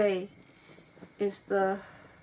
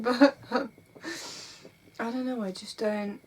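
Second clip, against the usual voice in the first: tearful; much slower than usual. Real, not acted. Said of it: "I'm crying because I'm burnt out".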